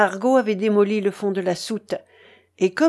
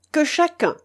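raised, emphatic order; commanding leader; 7 semitones higher than usual. A narrator's reading. Mutiny leader demanding an oath, commanding. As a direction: demand obedience from every man.

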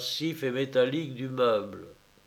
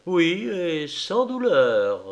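gentle; 4 semitones higher, 3 dB louder, much slower than usual. Acted. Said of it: "répondit doucement Farrington".

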